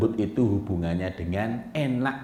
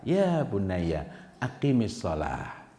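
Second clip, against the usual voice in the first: gentle counsel; much slower than usual. Shown as a demonstration. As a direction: advise the son tenderly.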